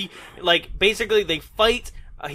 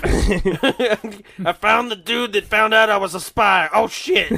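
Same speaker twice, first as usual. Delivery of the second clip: slow hammed-up Texas drawl; drawn-out, put-on Texan voice; mock Texas accent; 2 semitones higher, 3 dB louder, slower than usual. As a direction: play a blundering Texan giving himself away. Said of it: "he has the Tex accent".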